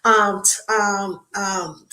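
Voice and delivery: stumbling, halting with ums; tongue-tied. Real, not acted. Host fumbling her show's name live, tongue-tied. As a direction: trip over the words and restart. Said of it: "I'm getting tongue-tied".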